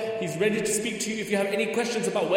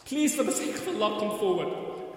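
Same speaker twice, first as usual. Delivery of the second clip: soft plea; 6 dB quieter than usual. Real, not acted. Quiet plea to donate.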